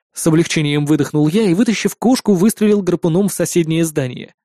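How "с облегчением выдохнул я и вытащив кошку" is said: plain reading voice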